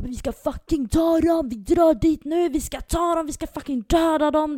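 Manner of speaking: high-pitched mock battle shouting; retold gang yelling. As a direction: imitate a hyped-up mob baying for blood. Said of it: "Som skriker och gapar".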